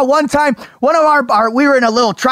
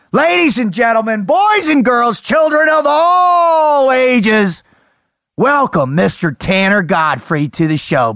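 ringmaster. Pretend. Introducing the guest.

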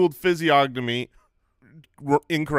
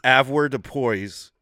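slow careful pronunciation; slower than usual. Shown as a demonstration.

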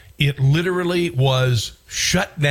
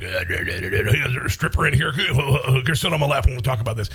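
Howard Stern impression; faster than usual. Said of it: "he doesn't talk like that. He's more like".

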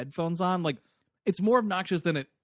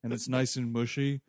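odd guy voice; 5 semitones lower than usual. Pretend. Voicing pumpkin collector guy.

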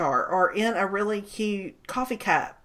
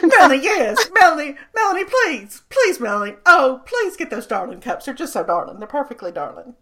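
pleading gushing friend; 3 semitones higher than usual. Pretend. Voicing Martha pleading.

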